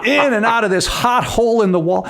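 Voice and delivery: hint of a grumbling baker, no accent; lightly voiced Ronnie. Reenacting Ronnie's bread rant for a co-host, lightly voiced. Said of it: "I'm not even trying to do the accent".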